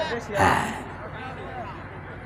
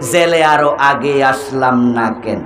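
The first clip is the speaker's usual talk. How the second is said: low, slow, rueful lament; mock regret; 4 semitones lower, slower than usual. Goat thief rues coming to jail late, mock regret. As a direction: lament a missed chance, lightly hammed-up. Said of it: "আফসুস করে বলে".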